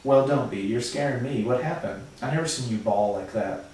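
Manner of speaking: steady read-aloud narration; storybook reading voice; story narration. A narrator's reading. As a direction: read the novel to the class. Reads the novel aloud.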